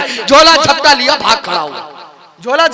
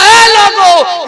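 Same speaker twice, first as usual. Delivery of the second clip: drawn-out call, higher; slow call to the crowd; 4 semitones higher, much slower than usual. Retold or imitated. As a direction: hail the whole village slowly. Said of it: "ये कहता".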